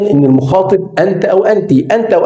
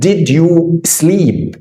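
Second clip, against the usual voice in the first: "did you sleep" spelled out slowly, word by word; slow drill; much slower than usual. Shown as a demonstration. Teacher slowly modelling "did you sleep" for the student. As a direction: stretch "did you sleep" for the learner to follow. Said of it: "عايز أقول له".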